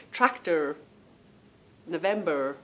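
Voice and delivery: American "tractor, November" with final R sounded; mimicking American accent. Mimicking husband and daughter, American R endings. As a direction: attempt American R endings on both words. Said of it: "I'm gonna try and mimic now".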